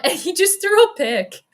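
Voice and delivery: high, loud, laughing through the words; real laughter bursting into speech; laughing disbelief. Real, not acted. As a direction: crack up while announcing it. Laughing at a sudden interception.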